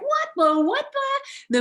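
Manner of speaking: loud, very high outburst of shock; big freak-out. Acted. Adult stumbling on kids' play, mock shocked freak-out. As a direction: act out flipping out, pitch shooting way up. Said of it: "if you get all big and you're like".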